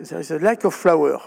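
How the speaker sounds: put-on English quote with a heavy French accent. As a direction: read out the English researcher's finding in French-accented English. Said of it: "excusez-moi mon accent anglais". (citation anglaise avec un accent français marqué)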